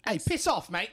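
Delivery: very high hammy "piss off"; high mock insult. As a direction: squeak it out, mock-rude. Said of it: "He's like".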